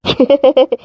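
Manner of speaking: high, breathy chuckle; villainous little laugh; gloating laugh. Acted. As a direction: let out a pleased, high giggle. Suitor gloats as woman reacts.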